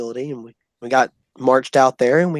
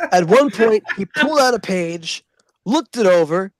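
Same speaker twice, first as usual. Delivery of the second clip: laughing; 6 semitones higher than usual. Real, not acted. Laugh spilling into narration.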